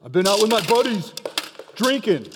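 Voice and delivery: mock quarrel, husband's side; lightly voiced husband. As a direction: own up loudly to an angry wife. Husband answers in acted quarrel.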